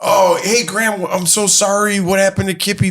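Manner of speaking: high, careful sympathetic greeting; lifted, sweetly apologetic voice; retold condolence. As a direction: imitate consoling a grieving grandma. Acting out condolence to grieving grandmother.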